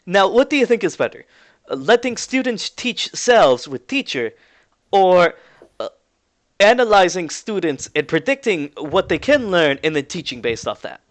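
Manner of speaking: put-on lightly Russian-accented questioning. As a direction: pose the choice in a Russian accent. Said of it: "a familiar Russian voice".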